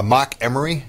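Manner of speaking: broad Boston vowels in "Mark"; Boston accent. Real, not acted. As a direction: drop the r in "Mark" Boston style. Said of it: "talking to somebody from Massachusetts".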